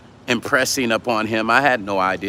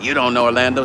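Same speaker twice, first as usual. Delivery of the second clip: dismissive troll line; faster than usual. Shown as a demonstration. Host mimics the rude troll comment, dismissive. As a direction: throw it out like a know-it-all troll. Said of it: "Instead of".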